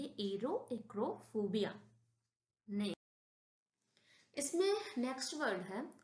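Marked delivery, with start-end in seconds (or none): 0.0-1.8 clearly pronounced "एरो एक्रोफोबिया"; teacher showing how "एरो एक्रोफोबिया" is read; pronunciation demo. Shown as a demonstration. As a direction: model "एरो एक्रोफोबिया" part by part. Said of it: "इसको हम ऐसे पढ़ेंगे".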